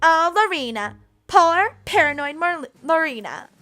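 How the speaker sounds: loud, high, syrupy condescension; exaggerated poor-you taunt; mock pity. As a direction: coo scornfully at a paranoid rival. Rival mocks Lorena with false pity.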